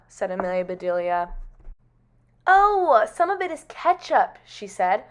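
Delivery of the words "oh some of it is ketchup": high, loud, carefree realisation; cheery explaining. Acted. Amelia Bedelia explaining the red stuff, breezy. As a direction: pipe up brightly as if nothing is wrong.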